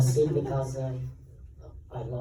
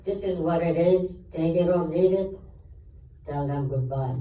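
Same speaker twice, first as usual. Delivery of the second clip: retold ultimatum; 4 semitones higher than usual. Actor retells telling his agent his terms, defiant. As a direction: retell laying down terms, firmly.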